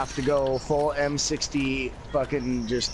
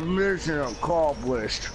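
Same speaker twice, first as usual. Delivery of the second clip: Rambo voice; much slower than usual. Pretend. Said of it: "You gotta talk like him too".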